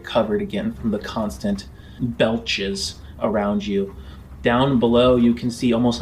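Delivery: steady, measured scene-setting narration; lightly dramatic GM storytelling; game master narration. Acted. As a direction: paint the journey for the players.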